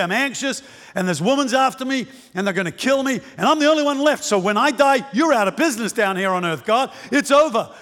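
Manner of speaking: mildly worked-up complaint; letting God have it. Acted. Despairing Elijah at the cave mouth to God, venting. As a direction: pour out grievances in a rush of short phrases. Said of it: "he lets God have it".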